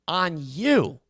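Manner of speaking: slow, quiet scolding; drawn-out shaming. Acted. Host shaming the callers, slow quiet scolding.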